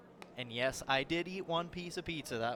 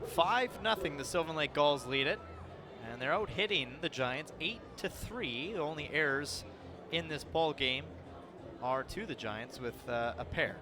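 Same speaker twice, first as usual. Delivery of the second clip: slightly raised announcer delivery; play-by-play score update; 3 semitones higher than usual. Real, not acted. Announcer updating fans on the ball game, play-by-play. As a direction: read out the score like a sportscaster.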